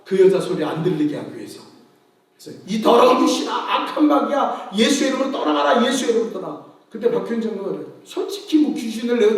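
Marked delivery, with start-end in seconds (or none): 2.7-6.7 mock exorcism shout. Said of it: "막 마이크에 큰 소리를 떠드는 거예요".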